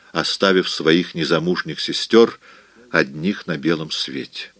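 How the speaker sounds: usual speaking voice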